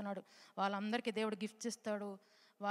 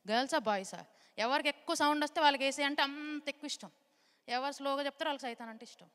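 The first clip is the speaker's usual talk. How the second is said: excited rallying; 4 dB louder than usual. Real, not acted. Teacher rallying kids to shout.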